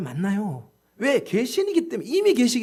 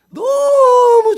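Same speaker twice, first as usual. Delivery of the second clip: very high, loud, long-drawn "so"; exultant emphasis; 14 semitones higher, 14 dB louder, much slower than usual. Real, not acted. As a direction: stretch it out in a high, loud burst. Preacher exults over the better girlfriend. (높고 크게 길게 늘여 강조)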